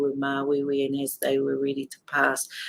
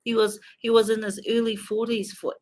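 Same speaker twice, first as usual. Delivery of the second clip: pained; 6 semitones higher than usual. Real, not acted. Grieving, bitter about nephew's death.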